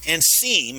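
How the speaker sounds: "seem" drawn out slowly for emphasis; stress on SEEM. Real, not acted. Preacher qualifies how obedience looks to listeners, stress on "seem". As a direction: lean slowly on the word "seem". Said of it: "and I emphasize seem".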